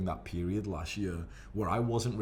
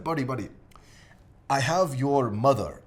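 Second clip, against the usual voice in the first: a big Russian bodybuilder threatening in jest; Russian accent; 4 semitones higher, 6 dB louder than usual. Retold or imitated. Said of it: "He's, like, Russian or some shit".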